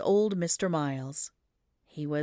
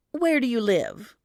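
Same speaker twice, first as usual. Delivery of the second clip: curious townsfolk; 6 semitones higher, 5 dB louder than usual. A narrator's reading. Crowd asks child.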